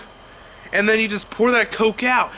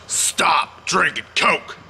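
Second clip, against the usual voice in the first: slow emphatic shout; urgent shout; much slower than usual. Real, not acted. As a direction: drag it out and shout the order. Urging viewers to quit soda.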